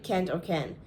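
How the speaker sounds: "Can't or can" both with short a, nearly identical; American can't. Shown as a demonstration. Vlogger showing the confusing pair, "Can't" as American kant. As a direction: make "Can't" sound almost like "can". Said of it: "You don't really hear it if you speak fast".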